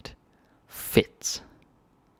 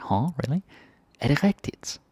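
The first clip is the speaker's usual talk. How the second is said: high incredulous rise on "Er det rigtigt?"; mock disbelief; 6 semitones higher than usual. Shown as a demonstration. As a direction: act out doubting what you heard. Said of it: "not believing something".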